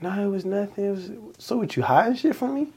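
put-on high, soft whiny little kid; mock childish pleading. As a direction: play the jealous kindergartner. Retold kindergarten jealous quarrel.

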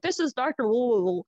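"Wu Wu Wu" as a mumbled blur for the name; imitated garbled name. Doctor naming herself on voicemail, "Wu Wu Wu" garbled. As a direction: let "Wu Wu Wu" stand in for an unintelligible surname. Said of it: "jarbled. I have no idea what the hell she's saying".

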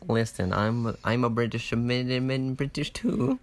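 badly faked British accent; drawn-out mock British, accents mixed up; muddled British. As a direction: attempt British and let it wander. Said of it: "That was a mix of everything".

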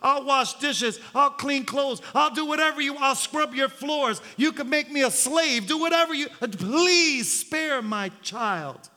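desperate mother bargaining; mother's plea. Acted. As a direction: offer anything to save the child. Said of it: "The cry of a mother's heart".

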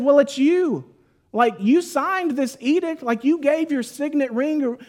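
pointed, high-pitched imagined rebuke; accusing. Acted. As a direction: confront the king with his own guilt.

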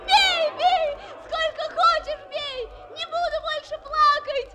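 put-on high defiant child cry. Girl defies while beaten. (дерзкий вызов)

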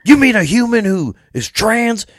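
high, slow mock-incredulous redneck; mock disbelief, pitched high and slowed down; mocking outrage. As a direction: parody baffled outrage. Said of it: "they're like".

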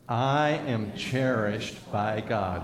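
slow, deliberate group recitation; out loud together. Shown as a demonstration. Preacher leading the congregation to say it aloud, slow and measured. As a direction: lead a congregation saying it slowly. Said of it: "say this out loud together".

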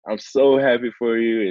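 high, mock-tearful wife overcome with joy; imitated happy crying. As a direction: play a wife bursting into happy tears. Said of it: "she just bust out in tears".

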